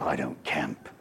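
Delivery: low, flat, final no; a hint of a stern wife, hands on hips; hands-on-hip refusal. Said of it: "the hands going on the hip".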